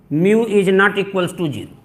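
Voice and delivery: mu is not equals to zero spoken very slowly, word by word; slow dictation. Shown as a demonstration. Teacher dictating the result to students, very slow and deliberate. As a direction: dictate it slowly so they can write it.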